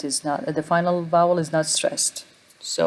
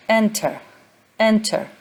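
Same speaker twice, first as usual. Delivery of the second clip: "enter" as EN-ter, raised pitch; stress on first syllable; 5 semitones higher than usual. Shown as a demonstration. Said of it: "stress is on the first syllable".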